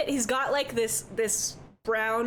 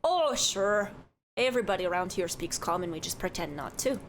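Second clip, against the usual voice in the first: lightly voiced chatty Midwestern barkeep; cheerful innkeeper who says don't you know; folksy bartender. Minnesota-ish bartender voice.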